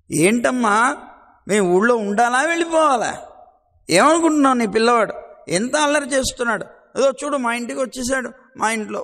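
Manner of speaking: loud, exasperated complaint to a mother; indignant village woman grumbling; complaining gopi. Acted. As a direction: scold the mother about her son.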